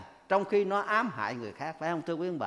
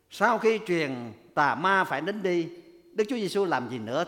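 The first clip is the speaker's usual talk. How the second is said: normal talking voice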